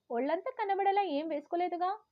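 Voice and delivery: fed up, shout back in frustration; annoyed shout. Retold or imitated. Daughter yelling at her elders in annoyance. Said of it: "విసుగ్గా అరిచాను".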